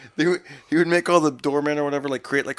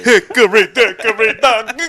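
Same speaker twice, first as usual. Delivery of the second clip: lightly put-on voice; 8 semitones higher, 11 dB louder, slower than usual. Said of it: "performs after being urged".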